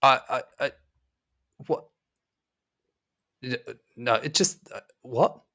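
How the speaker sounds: flustered denial of the brick wall. Acted. GM voices Jeremiah bewildered.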